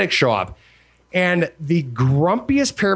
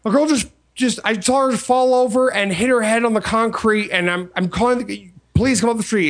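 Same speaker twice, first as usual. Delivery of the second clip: panicked caller; 5 semitones higher than usual. Retold or imitated. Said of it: "She's like".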